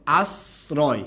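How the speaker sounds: "আশ্রয়" as "as-roy" with a clean s; careful "আশ্রয়", s in place of sh; model pronunciation. Shown as a demonstration. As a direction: open o in "আশ্রয়", s not sh. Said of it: "এটার উচ্চারণটা কি হবে".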